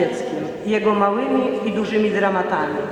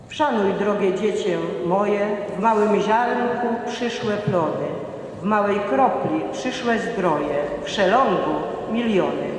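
poem recitation. Acted. Recites a patriotic children's poem.

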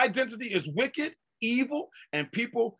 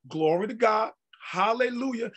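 joyful praise. Shown as a demonstration. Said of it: "Just like this here".

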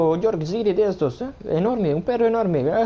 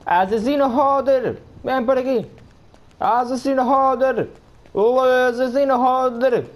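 calling the dog's name across the street; 4 semitones higher, slower than usual. Acted. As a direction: shout for the runaway dog, drawn out. Calling the lost dog.

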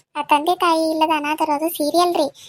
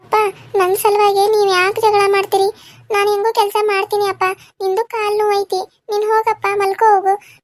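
pleading daughter; 4 semitones higher, 5 dB louder than usual. Acted.

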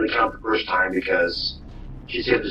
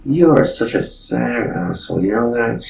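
ordinary talk

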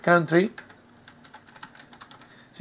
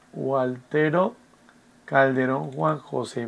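slow, softening name as it is written; drawn-out, trailing self-dictation; talking while writing; 3 semitones lower, 6 dB quieter, slower than usual. Real, not acted. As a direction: spell out the name to yourself, word by word. Writing down the new student's name.

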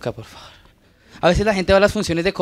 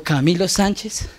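self pep talk; 5 semitones lower than usual. Pretend. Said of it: "me digo".

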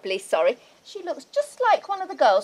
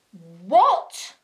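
loud, appalled cry of disbelief; shocked outburst; 6 semitones lower, 5 dB louder than usual. Acted. Wife discovering her husband kept the dagger, horrified cry. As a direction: blurt it out in horror.

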